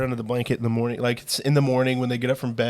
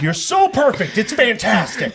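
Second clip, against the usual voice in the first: mock praise; 9 semitones higher, 5 dB louder, slower than usual. Real, not acted. Teasing bald friend.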